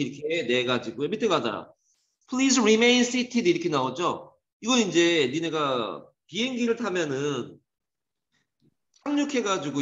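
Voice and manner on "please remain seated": slow, higher, louder in-flight announcer read; cabin announcement. Retold or imitated. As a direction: read it like a flight attendant over the speakers. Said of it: "그때 방송 나오잖아요". (기내 방송처럼 천천히 또박또박)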